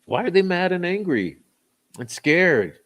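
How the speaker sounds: incredulous. Real, not acted. Mock-incredulous question about trolls.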